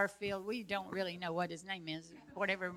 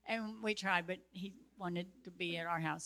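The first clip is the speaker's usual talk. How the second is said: ordinary talk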